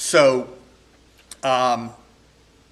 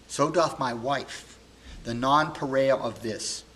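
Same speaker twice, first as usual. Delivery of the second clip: heartbroken Posthumus; 4 semitones higher, 4 dB louder than usual. Acted. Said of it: "heartbroken and very angry".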